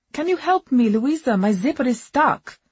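calling out. A narrator's reading. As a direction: call from behind the door. Agnes calling out from cubicle.

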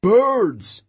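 high one-word cry; high-pitched cry of alarm; cried warning. A narrator's reading. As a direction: call out the danger, high and falling. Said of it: "he cried".

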